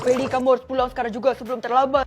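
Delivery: a hint of a worried male teacher; lightly voiced teacher. Teacher urgently warns Feli to go home, lightly voiced. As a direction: warn her in a teacher voice.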